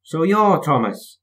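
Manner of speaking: slow, drawn-out bus voice; a bus sizing him up, slowly. A narrator's reading. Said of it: "bus speaking".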